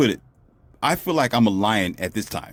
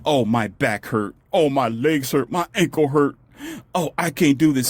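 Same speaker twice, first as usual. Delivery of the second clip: mock whining complaint; 3 semitones higher than usual. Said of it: "they started complaining".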